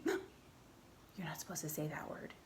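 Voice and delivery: hushed, scandalized whisper; imitating a shocked child. Child hearing a naughty word, whispering. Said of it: "maybe you're like".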